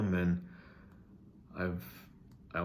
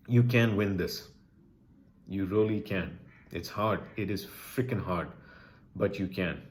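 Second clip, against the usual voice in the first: emotional; 4 dB louder than usual. Real, not acted. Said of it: "I'm getting a little emotional here".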